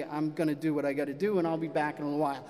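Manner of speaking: low, quick retold stern dad. Father tells daughter he has chores, mildly stern. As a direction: brush it off sternly, fast and low. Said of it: "And I'm like, sternly".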